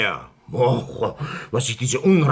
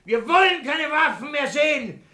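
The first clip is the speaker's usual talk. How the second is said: pompous speech; 12 semitones higher than usual. Acted.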